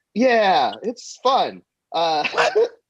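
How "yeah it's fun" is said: glum, unexcited, pitch dropping at the end on fun. Asked whether he really did it a couple hundred times, he replies: unenthusiastic, falling at the end. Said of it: "You didn't sound happy about it. You went down on it's fun".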